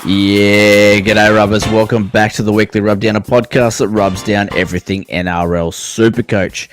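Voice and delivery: upbeat show-opening announcer read; podcast host intro. Acted. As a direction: open the show like a radio host.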